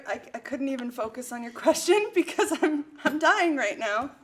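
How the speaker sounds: talking through a burning mouth; words pushed past spicy pain; mouth burning from spicy food. Real, not acted. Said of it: "My mouth is burning out".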